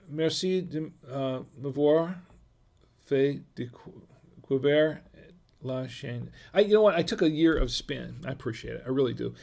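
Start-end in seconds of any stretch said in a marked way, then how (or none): 0.1-6.3 slow English-accented French. Real, not acted. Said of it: "Congratulations for your French accent".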